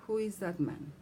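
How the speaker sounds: "man" glides steeply down; falling intonation. Shown as a demonstration. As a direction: ask it with the pitch dropping on "man". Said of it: "Falling intonation".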